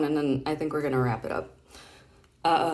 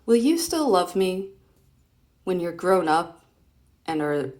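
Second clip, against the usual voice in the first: a touch higher, louder reading voice; girl's line; 3 semitones higher, 5 dB louder than usual. Acted. Reading a comic to her son, a girl's plea. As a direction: read the girl's plea aloud.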